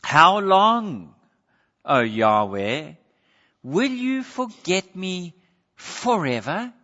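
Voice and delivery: loud opening cry, then slow questioning; despairing cry. Acted. Psalmist asking if God has forgotten him, despairing. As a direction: cry out to God, drawing out each phrase. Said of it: "The despair of a sorrowful heart".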